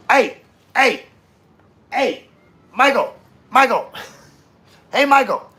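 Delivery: high squeaky voice, loud calls; mock squeaky shout. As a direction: call out in a squeaky put-on voice.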